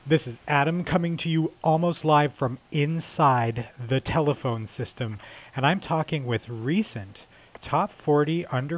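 breathless, catching his breath; talking while winded. Real, not acted. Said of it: "I'm actually out of breath right now".

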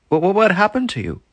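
loud high stammering shock; astonished. Acted. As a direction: gasp it out in disbelief. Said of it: "said the landlord".

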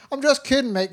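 lightly voiced thug laughing off the gun; a hint of the ex-military guy brushing it off; joking villain. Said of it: "he has some weird accent that I'm not gonna try and emulate".

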